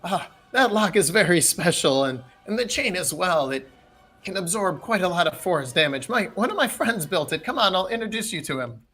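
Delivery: a hint of a proud old host; old man. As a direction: explain as a mildly acted old man. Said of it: "a very old man".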